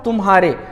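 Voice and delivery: तुम्हारे with म running straight into ह; joined as one word. Shown as a demonstration. Teacher reading out तुम्हारे as one unbroken word. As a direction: say तुम्हारे with no noticeable break. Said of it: "विराम है बहुत छोटा है".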